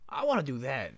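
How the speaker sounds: put-on breathy hushed little-kid whisper; whispered wish. Seven-year-old whispering to himself at the wall. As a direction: whisper it like a kid longing to join. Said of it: "I was like".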